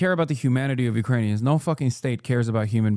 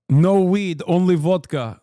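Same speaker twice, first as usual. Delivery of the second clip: mock shout; 4 semitones higher, 6 dB louder, slower than usual. Mock Russian joke, shouted.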